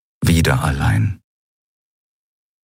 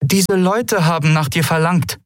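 timid, much higher; a nervous call of her name; intimidated; 11 semitones higher than usual. Acted. Mother frightened by strangers, calling timidly. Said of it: "begann ihre Mutter eingeschüchtert".

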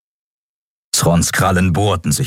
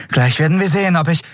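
high, fast, urgent female voice; determined young pilot; 11 semitones higher, faster than usual. Acted. Endriel explaining her escape plan to Keru, high and fast. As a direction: rush the plan out, pitched high.

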